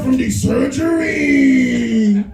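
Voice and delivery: high, slow wheedling wife voice; sweet-talking wife. Retold or imitated. Wife guilt-trips husband about her kidney, high and whiny. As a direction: drag it out like a manipulative wife. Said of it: "She's like".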